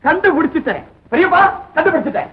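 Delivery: eager announcement. Acted. Solver tells uncle it is found, eager announcement. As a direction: announce the find with contained excitement.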